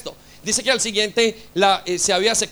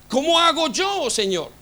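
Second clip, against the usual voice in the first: pleading cry; 7 semitones higher than usual. Acted. Preacher pleading to God.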